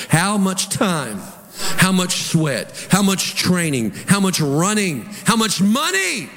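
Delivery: each "How much" pressed slowly; slow building questions. Real, not acted. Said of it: "rhetorical build".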